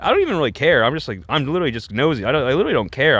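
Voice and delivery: Jojo. Retold or imitated. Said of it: "Jojo's like".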